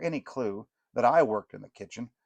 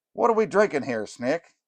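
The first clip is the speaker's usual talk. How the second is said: much higher, much louder rocker greeting; a burned-out rock star calling out; aging rocker; 5 semitones higher, 5 dB louder than usual. Acted. Rocker greeting the fudge makers, loud and high. Rocker joking about punch.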